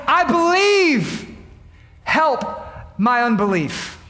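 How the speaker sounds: slow, aching prayer; a touch of a broken plea. Retold or imitated. Father crying out to Jesus, mildly pleading. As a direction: let it break slowly, lightly. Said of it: "He says".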